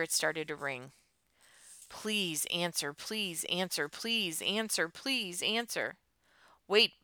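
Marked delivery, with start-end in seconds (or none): 1.9-6.0 drawn-out, repeated plea under tension; slow pleading. Acted. Silently begging the phone to connect. 6.7-7.0 higher, louder interruption; sudden interjection. A narrator's reading. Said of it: "Buzz said suddenly".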